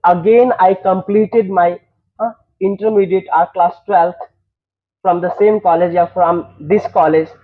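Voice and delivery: teacher dictates the next qualification line to students, slowly; slow model sentence. Shown as a demonstration. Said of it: "teacher models education sentence".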